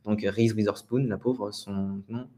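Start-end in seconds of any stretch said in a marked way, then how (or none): 0.2-1.1 "Reese Witherspoon" as "riz wi-zeur-spoun"; French pronunciation. Shown as a demonstration. Teacher repeating the poor star's name, French pronunciation. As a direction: say "Witherspoon" with z instead of th. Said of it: "ne va pas faire un beau T H".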